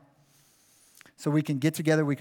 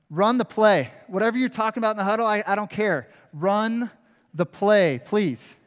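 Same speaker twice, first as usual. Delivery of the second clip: fan yelling; 4 semitones higher than usual. Retold or imitated. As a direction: yell at the team to just run the play. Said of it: "I'd be in the crowd going".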